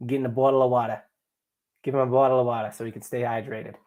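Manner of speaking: over-exaggerated Southie Boston accent; hammed-up Boston vowels and dropped Rs. Shown as a demonstration. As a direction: do a stereotypical Boston local. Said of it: "How's my Boston accent?".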